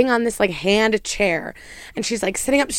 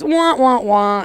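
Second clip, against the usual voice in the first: mock "wah" noises stepping down; sing-song wah, wah, wah, dropping at the end; imitated wah-wah noise; 3 semitones higher, much slower than usual. Imitating the man holding the banana upright, comic wah-wah. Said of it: "He just goes".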